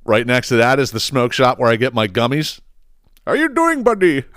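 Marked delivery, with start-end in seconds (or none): 3.3-4.2 cheery greeting. Retold or imitated. Greeting the smoke shop guy.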